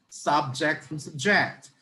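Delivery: "subject" said slowly twice, stress shifted between syllables; slow demo of "subject" with moving stress; contrasting word stress. Shown as a demonstration. Teacher showing how intonation changes a word, stress shifted on "subject". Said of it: "if we change the intonation of a sentence or a word".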